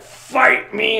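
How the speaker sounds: high, loud, drawn-out challenge; mock battle cry. Clone daring a friend to battle, mock battle cry. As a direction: throw down a hammed-up challenge. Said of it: "she's like".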